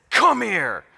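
high, loud imitation of a principal's yell. Principal yells at the kid in the hallway, yelling. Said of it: "he yelled at this kid and said".

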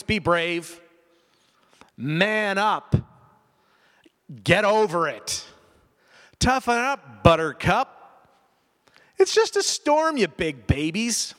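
strict commanding voice. Pretend. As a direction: bark it like a tough coach who has no patience. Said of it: "in a strict, commanding voice".

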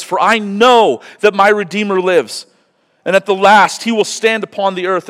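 high, loud preached reading; fervent scripture reading. Acted. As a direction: proclaim the passage with conviction. Reads Job.

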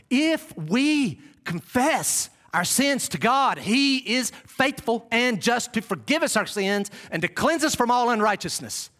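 slow, deliberate Bible reading; scripture recitation. Acted. Preacher quoting God's truth to the congregation, slow scripture recitation. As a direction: recite the verse slowly, phrase by phrase.

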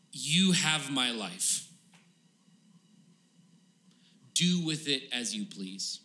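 very slow, deliberate yielding; solemn surrender. Acted. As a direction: hand it over slowly, with long pauses. Acting David's surrender to God.

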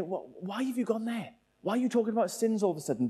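mock bewilderment; baffled protest. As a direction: act out a taken-aback listener asking why. Acting out readers' baffled reaction.

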